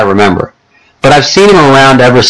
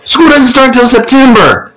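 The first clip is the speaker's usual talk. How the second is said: higher, slower gentle mother; a mother easing her son into news, higher and slower; mom's voice; 13 semitones higher, slower than usual. Acted. Jack's mom telling him about school, higher and slower.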